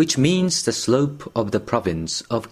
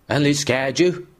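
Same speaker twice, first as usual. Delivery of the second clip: unsympathetic query; 4 semitones higher than usual. Acted. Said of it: "queried the peddler unsympathetically".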